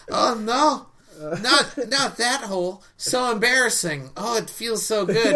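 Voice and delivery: put-on high, loud squealy anime girl. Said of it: "and she's like".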